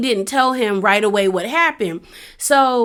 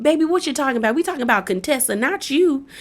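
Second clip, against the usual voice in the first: meek wife imitation; 4 semitones higher, 4 dB quieter, faster than usual. Imitating wife's meek pleading to husband.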